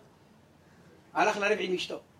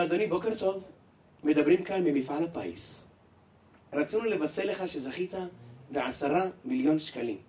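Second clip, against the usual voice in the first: polite clerk; 3 semitones lower than usual. Acted. Lottery clerk announces win.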